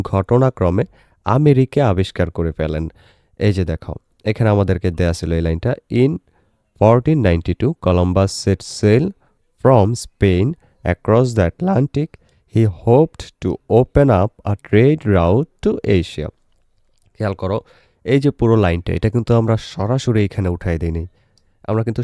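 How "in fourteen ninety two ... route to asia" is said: slow, deliberate English reading with pauses; measured model reading for learners; teacher's read-aloud. Shown as a demonstration. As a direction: read the passage out phrase by phrase. Reads the passage aloud slowly.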